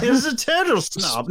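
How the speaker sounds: lightly put-on snob. Describing the funny pteranodon, slightly snobbish imitation. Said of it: "Listen to the way he speaks".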